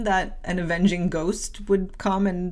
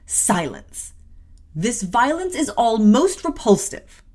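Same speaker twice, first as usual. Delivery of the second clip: stern rebuke; 4 semitones higher, 6 dB louder, slower than usual. Acted. Aunt cuts off pleading child.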